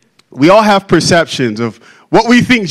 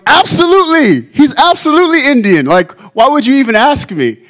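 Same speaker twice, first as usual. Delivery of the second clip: much higher, indignant put-on voice; Indian pastor; 7 semitones higher than usual. Preacher voicing the Indian pastor in the joke, indignant and high. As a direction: play the offended Indian pastor, pitched way up. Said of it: "And the Indian pastor goes".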